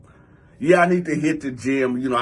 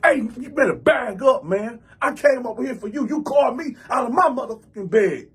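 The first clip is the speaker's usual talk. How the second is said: raised, high indignant scolding; retold angry warning; 6 semitones higher than usual. Man grabs cousin's shirt, high indignant warning. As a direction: reenact telling a cousin to back off.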